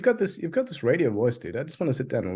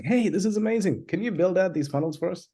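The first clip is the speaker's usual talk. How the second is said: higher-pitched, mildly excited imitation; enthusiastic customer; 5 semitones higher than usual. Host quoting customers who want funnels built, mock enthusiasm. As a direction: mimic a keen, impressed client. Acting out keen customers asking.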